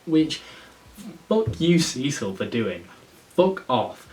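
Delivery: loud, high, real angry swearing; irate outburst. Real, not acted. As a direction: blow up at the character. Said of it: "getting a bit irate".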